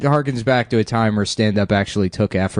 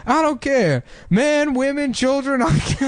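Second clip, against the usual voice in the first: high mock Arab accent; imitating Arab voice; 13 semitones higher, slower than usual. Retelling Steve Harvey's bit, high mock Arab voice. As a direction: shrug it off in a high put-on accent. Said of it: "a Arab voice".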